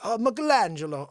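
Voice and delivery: light cartoon Italian accent. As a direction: say it like a hammy Italian. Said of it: "The I-, Italian accent".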